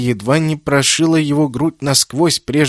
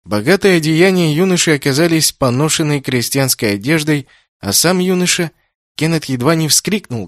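ordinary delivery, nothing marked

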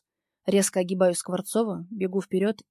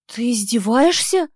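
медленно, выше и громче, не веря; будто ослышалась; ошеломлённо; 5 semitones higher, 10 dB louder, slower than usual. Acted. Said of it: "Не веря собственным ушам". (героиня не верит своим ушам)

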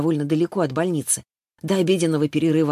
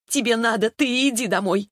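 "Тебе надо" thrown back, pitched high; shrill retort; 7 semitones higher than usual. A narrator's reading. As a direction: snap back at the mother, high and sharp. Дочь кричит на мать.

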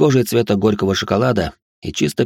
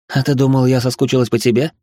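playful, carefree; 4 semitones higher than usual. Acted. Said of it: "беззаботным, даже немного игривым тоном".

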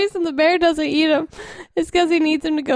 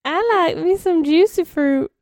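put-on dumb kid voice. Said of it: "That's how the kid talks".

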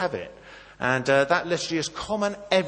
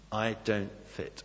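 quiet inner thought; 5 semitones lower, 10 dB quieter, slower than usual. Retold or imitated.

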